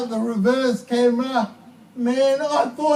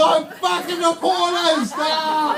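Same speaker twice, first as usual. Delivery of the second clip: bragging yell; 3 semitones higher than usual. Pretend. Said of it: "I'd be going".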